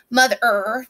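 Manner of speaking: "mother" with a held "er"; emphasized ER ending. Shown as a demonstration. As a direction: stretch the ER in "mother". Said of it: "I'm gonna say it real loud".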